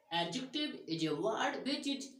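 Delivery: slow, spaced definition reading; slow dictation. Shown as a demonstration. Teacher dictating a grammar definition slowly.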